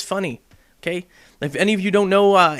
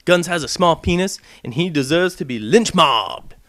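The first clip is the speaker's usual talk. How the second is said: mock agreement; 3 semitones lower than usual. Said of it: "Be like".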